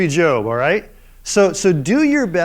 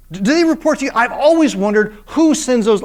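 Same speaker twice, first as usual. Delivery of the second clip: high, mocking wonder; God mock-marvelling at Job; sarcastic; 6 semitones higher, 4 dB louder than usual. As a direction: feign amazement to needle Job. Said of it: "The sarcasm is just what gets me".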